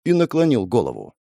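ordinary delivery, nothing marked

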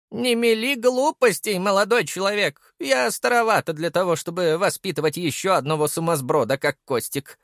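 put-on a stern old grandmother, amused. Grandmother chides her grandson, in a high old voice.

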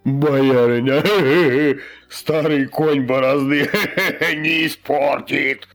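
slow words broken by guffaws; laughing through words. A narrator's reading. Fat quartermaster mocking the old man, laughing. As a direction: tease through bursts of laughter. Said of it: "аж колыхался от смеха".

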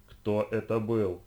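each word slow and weighted; slow menacing repeat. Acted. Лиша давит на горло, медленно и с угрозой. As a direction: squeeze the answer out slowly. Repeats the question, pressing harder.

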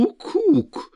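very high bleating cry; goat bleat. A narrator's reading. Devil bleating at the elves, very high.

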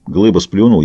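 plain reading voice

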